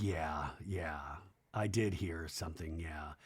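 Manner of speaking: soft breathy whisper, nearly no voice. Retold or imitated. Auntie Jenny answering Brittany on FaceTime, in a whisper. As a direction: whisper it like a secret.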